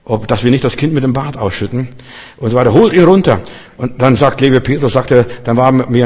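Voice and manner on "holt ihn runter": a higher, louder echo of the mob; mock crowd shout. Preacher echoing the brothers' cry, higher and louder. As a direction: toss the cry out again half in jest.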